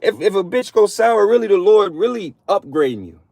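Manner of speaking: stretched-out high exclaim; mock preacher quote. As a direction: lift it up high like a revelation. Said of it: "We're like".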